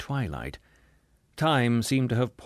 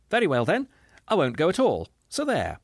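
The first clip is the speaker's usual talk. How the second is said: higher, sharp petulant retort; a higher, huffy woman's snapping voice; waspish snap; 6 semitones higher than usual. Acted. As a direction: snap it back like a sulking wife. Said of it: "a little waspish woman ... snapped out".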